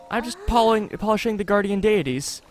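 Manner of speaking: lightly acted shy devotee; earnest, hesitant character reading, kept gentle; timid villager. Voices a shy game character.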